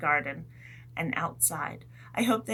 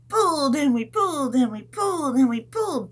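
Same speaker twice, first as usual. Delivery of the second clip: louder, higher heave chant; straining pull; 5 semitones higher, 5 dB louder than usual. Pretend. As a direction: pull hard on each word.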